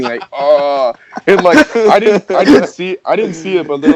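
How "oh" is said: long drawn-out imitated groan; half-hearted drawn-out moan; mock moan. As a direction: imitate a hurt man moaning. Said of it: "like, moaning".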